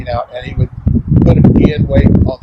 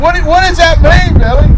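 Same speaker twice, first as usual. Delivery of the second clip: mock puzzled; 14 semitones higher than usual. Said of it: "I go".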